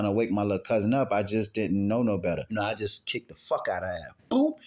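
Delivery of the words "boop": short spoken impact noise; mimicked blow; imitated kick thud. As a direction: pop out a quick kick sound effect.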